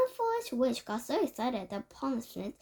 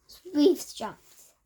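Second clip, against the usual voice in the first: louder, odd-voiced shout; 4 semitones higher, 7 dB louder than usual. A narrator's reading. Grand High Witch shouting her plan to the witches. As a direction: shout it at the crowd. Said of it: "shouted the Grand High Witch".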